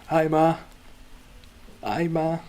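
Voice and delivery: high, loud mock call-out; calling to mum. Streamer on the front screen greeting Ma, calling out high.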